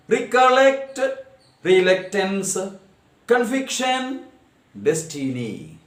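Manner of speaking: measured word list, three distinct beats each; syllable by syllable. Shown as a demonstration. Teacher reading trisyllabic examples, syllable by syllable. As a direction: sound out all three syllables of every word evenly. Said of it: "examples of trisyllabic words".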